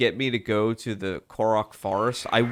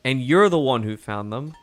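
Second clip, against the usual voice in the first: FOUND THEM said as a statement, not asked; question read as statement; 3 dB louder than usual. Acted. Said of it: "I didn't do that as a question".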